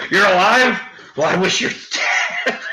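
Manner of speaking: can't hold back the giggles while quoting the line; laughing retelling. Retold or imitated. Retelling the quip to friends, laughing through it. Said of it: "I'm laughing".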